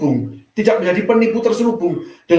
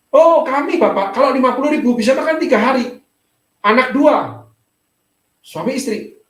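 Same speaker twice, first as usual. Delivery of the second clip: higher-pitched imitation of a needy visitor; pleading supplicant; 5 semitones higher than usual. Poor parent of two telling the pastor how little they have, pleading. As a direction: mimic someone explaining their hardship, pitched up.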